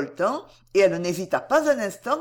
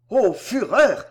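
louder outburst of fury; a sharp cry of anger, louder than his speech; furious cry; 6 dB louder, slower than usual. Acted. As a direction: cry out in rage. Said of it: "s'écria Delville".

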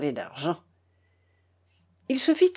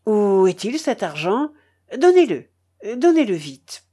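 louder, jumping up on the command; urgent demand; 6 dB louder than usual. Acted. Foma demands the money from the uncle, urgent. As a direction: demand it at once, impatiently.

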